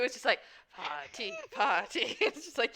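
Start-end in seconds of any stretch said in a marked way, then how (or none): 0.8-2.2 lightly imitated character accent; Ansel. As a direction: mimic the put-on accent, playfully. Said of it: "in Ansel's accent voice, too".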